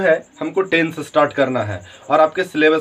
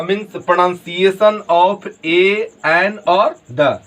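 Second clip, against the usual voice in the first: slow; much slower than usual. Shown as a demonstration. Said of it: "teacher spelling out articles slowly".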